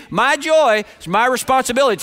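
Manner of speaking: firm, emphatic declaration; with conviction. Shown as a demonstration. Preacher showing congregation what to tell neighbours, with conviction. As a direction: declare it like you mean it. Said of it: "tell them with conviction".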